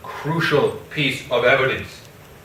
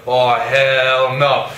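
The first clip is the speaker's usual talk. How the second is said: drawn-out refusal; 3 dB louder, much slower than usual. Retold or imitated. Retelling Montano's slow defiant reply.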